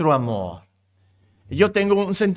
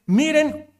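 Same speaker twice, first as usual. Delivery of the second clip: slow, louder, marveling; wonder-filled exclamation; 4 dB louder, slower than usual. Shown as a demonstration. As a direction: draw it out in amazement. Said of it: "intensifica lo maravilloso de esto".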